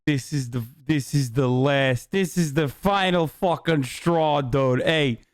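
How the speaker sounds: lightly hammed-up Italian American accent; mock-indignant Italian American wise guy. Streamer protesting at the news clip in a mock Italian American accent. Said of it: "I'm doing an Italian American accent".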